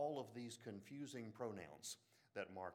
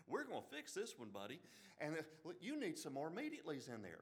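put-on half-joking Southern accent, a bit higher; mock Southern accent; 5 semitones higher than usual. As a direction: poke fun at a Southern scribe in a Southern accent. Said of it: "make fun of my own Southern accent".

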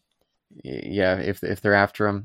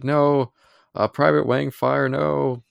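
higher, drawn-out pretend lament; mock stunned dismay; 6 semitones higher, 3 dB louder, slower than usual. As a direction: imitate a stunned sergeant crying out no. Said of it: "he's so stunned".

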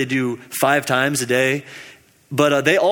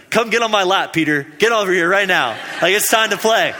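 playful Jesus; 4 semitones higher than usual. Retold or imitated. Jesus calls Peter to play.

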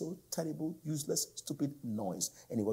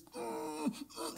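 strained, muffled hum of labour; imitated travail groan; 5 dB quieter than usual. Shown as a demonstration. Preacher demonstrating the sound of the earth, imitated groan. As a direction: groan through closed lips, imitating the earth. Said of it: "like the travail of a woman in birth".

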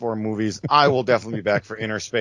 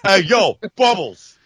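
calling out; 9 semitones higher, 4 dB louder, slower than usual. Pretend. Calling out to mom.

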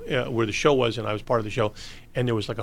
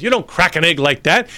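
scolding chef; 6 semitones higher, 6 dB louder than usual. Retold or imitated.

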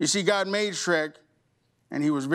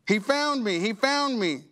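a touch of lifted joy; joyful; 6 semitones higher than usual. Acted. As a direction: say it with rising delight. Sheep rejoicing in story.

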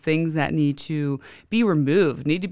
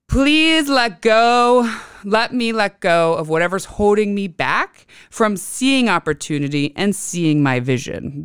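pleading affirmation; 4 semitones higher, 3 dB louder than usual. Shown as a demonstration. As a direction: pray it out, drawing out please. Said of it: "one good one that will come up is".

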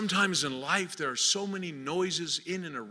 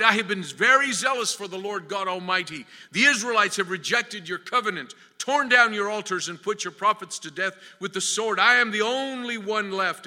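louder, higher recitation of a complaint; Elijah's impassioned plea; 3 semitones higher, 5 dB louder than usual. Retold or imitated. Elijah answers the Lord in the cave, impassioned. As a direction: press the grievance upward to God. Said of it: "And he replied".

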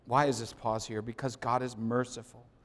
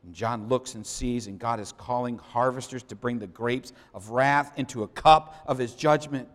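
normal talking voice

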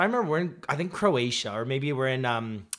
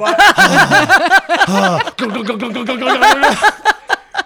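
loud, exaggerated breaths, then glugging; Frank's heavy breathing; 9 semitones higher, 11 dB louder than usual. Friend teases another's noisy habit, hammed-up heavy breathing. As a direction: huff noisily, then gulp in rapid bursts. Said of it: "that's like Frank's heavy breathing".

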